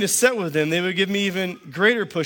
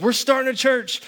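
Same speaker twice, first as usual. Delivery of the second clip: much higher, eager pitch; fired up; 9 semitones higher than usual. Retold or imitated. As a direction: pitch the big dream with excitement. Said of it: "I'm all fired up".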